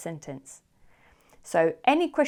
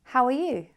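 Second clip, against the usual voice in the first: "How are" pitched high, "you" falling; stress on first part; 6 semitones higher than usual. Shown as a demonstration. Teacher recaps open questions, high start on "How". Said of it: "We stress the first part".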